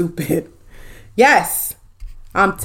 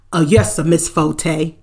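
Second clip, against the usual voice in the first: lower, dutiful servant's reply; subservient driver; 5 semitones lower than usual. Pretend. Driver's required response to his boss, subservient. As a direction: answer low and deferential, playing the driver. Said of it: "Just like that".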